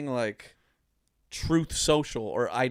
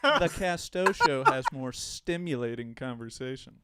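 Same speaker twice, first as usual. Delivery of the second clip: smug jackass voice; 2 semitones lower, 4 dB quieter than usual. Retold or imitated. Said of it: "just like".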